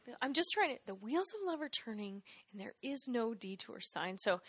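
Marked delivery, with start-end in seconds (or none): 0.9-4.2 tag. Retold or imitated. Repeats the lyric deliberately low.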